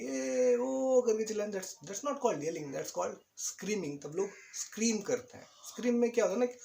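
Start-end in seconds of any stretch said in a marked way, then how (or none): 0.0-1.0 mock ride scream. Shown as a demonstration. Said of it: "सब लोग मिलके चिल्ला रहे हैं".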